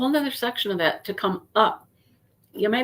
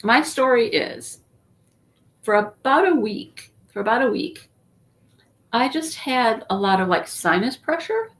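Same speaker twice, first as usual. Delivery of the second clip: talking around a cough drop; mouth full; 2 semitones higher than usual. Real, not acted. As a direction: cough drop in her cheek. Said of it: "I have a cough drop in my mouth".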